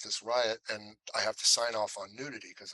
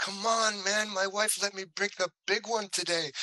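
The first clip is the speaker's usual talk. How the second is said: mock eager protest; 10 semitones higher than usual. Protesting to the director, joking.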